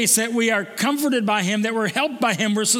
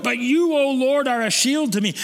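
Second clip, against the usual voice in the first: fervent prayer; 4 semitones higher than usual. Acted. Preacher boldly declaring David's trust in God. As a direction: lift it up, proclaim it. Prayer repeated with rising fervour.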